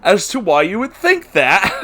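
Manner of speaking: incredulous questioning. Real, not acted. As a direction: pick apart the logic, baffled and pointed. Questioning the author's plot logic.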